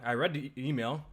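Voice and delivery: talking while chewing candy; words around a mouthful of Skittles; mouth full. Real, not acted. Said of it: "Sorry, I'm chewing on some fucking Skittles right now".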